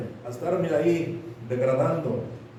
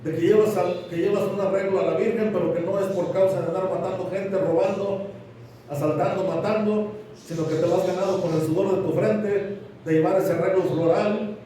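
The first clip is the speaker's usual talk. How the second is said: forceful raised sermon voice; preaching; 3 semitones higher than usual. Acted. Preaches God's rebuke.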